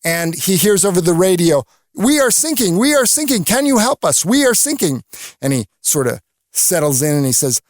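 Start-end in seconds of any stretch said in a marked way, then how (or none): 2.0-5.0 urgent mayday voice from a sinking boat; distress call. Retold or imitated. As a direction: call out like sailors on a sinking ship. Sinking ship calling on the radio.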